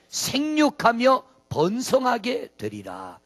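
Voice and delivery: slow, solemn blessing; divine blessing. Acted. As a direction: bless them slowly, like God. God's blessing quoted slowly. (천천히 엄숙하게 축복하듯)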